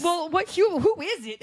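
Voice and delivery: high, jumpy mock panic; panicked whisper-shout. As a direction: act out the startled fright. Panicked reenactment of doorbell.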